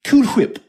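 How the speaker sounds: "Whip" said hwip with a breathy H; "Cool Whip", H blown out; emphasis on the H. Acted. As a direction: lean on the H of "Whip". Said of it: "I'm putting emphasis on the H".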